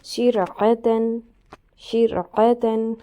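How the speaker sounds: شرعتن drawn out very slowly, with a thin ر; slow Quran recitation. Shown as a demonstration. Teacher reciting the thin ر for students, slow recitation. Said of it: "باریک پڑھنا ہے".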